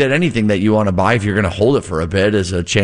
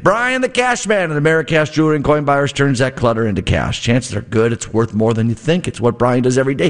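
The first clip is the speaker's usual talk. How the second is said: upbeat live radio ad read; 4 semitones higher than usual. Acted. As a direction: sell it like a radio host. Host reads a live ad.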